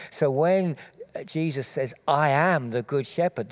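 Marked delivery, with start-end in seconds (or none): 2.1-3.5 "I am" hit firmly, the rest lighter; stress on I AM. Retold or imitated. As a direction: punch "I am" to mark the wordplay. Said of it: "there's a word play".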